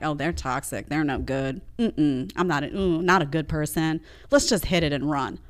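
low, soft imitation of a dismissive dater; mock casual dismissal. Voices women sizing somebody up.

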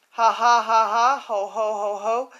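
lightly acted belly laugh, read off the page; read-out laughter. Elephant shakes with laughter, lightly acted ha ha. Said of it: "The elephant shook from his head to his toe".

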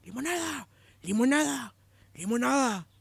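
high sing-song taunt, three times; mock the man by name; calling out a nickname. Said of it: "siempre le decían que él salía y". (burla cantada de un apodo)

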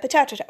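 potato garbled as "puh-TAH-tuh-toh"; heavy foreign accent. Retold or imitated. Exchange student tries English, potato in heavy accent. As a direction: mimic "potato" with AH and an extra syllable. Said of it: "heavy accent".

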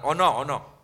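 mild teasing push for a yes; coaxing tag. Shown as a demonstration. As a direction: playfully nudge someone to agree. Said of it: "o decimos a la persona".

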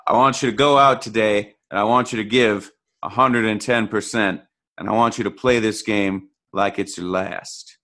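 a hint of a head coach firing up his defense; coach pep talk impression. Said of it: "That was a very bad impression".

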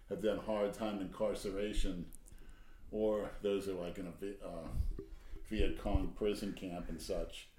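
echoey mic. Real, not acted. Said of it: "you sound kind of echoey".

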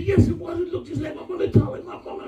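a hint of a shaken girl insisting. Girl's reply in retold story.

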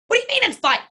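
high, incredulous outburst; indignant disbelief. Retold or imitated. Teen dancer protesting to her calm coach, high and incredulous. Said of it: "I'm like".

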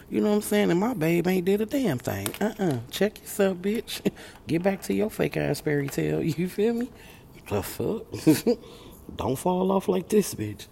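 loud, high, laughing at herself; laughing self-scold. Real, not acted. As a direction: cackle while telling yourself off.

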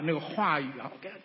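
normal talking voice

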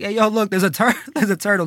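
amused call to friends, breaking into a laugh. Retold or imitated. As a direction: point out the turtle while laughing. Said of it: "I'm there laughing".

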